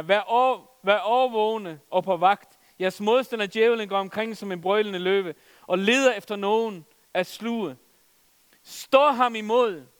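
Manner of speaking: solemn scripture read. Acted. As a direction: read the warning verse with rising force. Reading scripture aloud.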